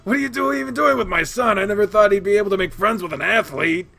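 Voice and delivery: loud, gushing fan of a father; childishly excited dad. A narrator's reading. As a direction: babble loudly like an overexcited kid. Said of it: "in childish excitement".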